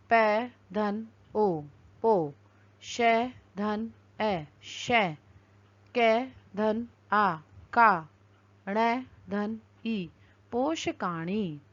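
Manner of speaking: slow letter-by-letter building of पर्णम; spelling out letters. Shown as a demonstration. Teacher spelling a word for the class, slowly. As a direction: drag out each sound as you join them. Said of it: "वर्णों का संयोजन करके".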